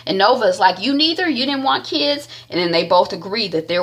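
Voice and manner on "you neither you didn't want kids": high, questioning echo; imitated surprise. Nova questioning Doc Rob about kids, mock surprised. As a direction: retell it as a surprised double-check.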